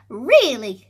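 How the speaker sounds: loud, firm reply; shouting. Acted. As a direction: insist joyfully. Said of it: "shouted Meg".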